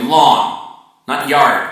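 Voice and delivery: "lawn" said loud, "not yard" firmly; insistent realtor correction; emphatic correction. Shown as a demonstration. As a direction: hit "lawn" hard, then reject "yard". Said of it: "And by the way".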